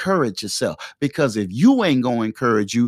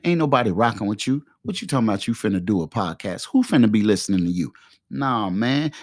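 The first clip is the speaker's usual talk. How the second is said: a lightly voiced taunting inner doubter, lower on some words; inner Satan voice; 3 semitones lower than usual. The inner Satan voice taunting the would-be podcaster, lightly mocking. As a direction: sneer at yourself the way self-doubt does, only lightly put on. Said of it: "It talks to you like this".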